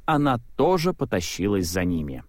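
ordinary delivery

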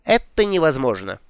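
pompous, self-important tone. Acted. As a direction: speak with lofty importance. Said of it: "с важным видом заявил мэр".

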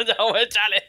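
high-pitched, laughing through the words. Real, not acted. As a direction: say it while cracking up. Broma entre risas al echarlo. (entre risas, con voz aguda)

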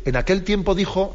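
lifted, formal reading of the gospel opening; distant gospel reading. Retold or imitated. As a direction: read it like a far-off, impersonal liturgical formula. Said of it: "El salto de". (lectura litúrgica distante y elevada)

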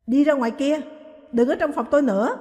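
loud, sharp order to get out; shouting. Acted. Wife yelling at husband to leave her room, loud. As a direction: yell him out of the room. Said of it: "rồi hét lên".

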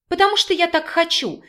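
woman yelling at her lover to change the subject; yelled. A narrator's reading. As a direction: shout it to dodge the question. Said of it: "заорала женщина".

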